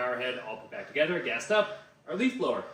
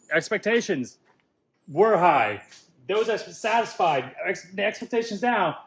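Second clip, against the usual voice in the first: excited shout; 5 semitones higher, 6 dB louder than usual. Real, not acted. Triumphant outburst after engine starts.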